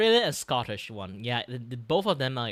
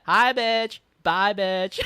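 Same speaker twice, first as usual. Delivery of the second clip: casual Aussie greeting; 8 semitones higher, 9 dB louder, much slower than usual. Retold or imitated. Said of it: "They'd be like".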